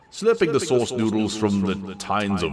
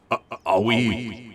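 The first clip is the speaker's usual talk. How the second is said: nervous gulp; 4 semitones higher, slower than usual. A narrator's reading. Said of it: "she gulped".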